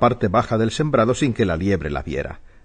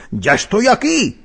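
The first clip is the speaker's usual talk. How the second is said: much higher, drawn-out call; mimicked call; 10 semitones higher, slower than usual. A narrator's reading. Narrator voices the hedgehogs greeting the hare each time, mimicked call. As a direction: pitch it way up and sing out the announcement. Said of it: "el erizo o su mujer decían".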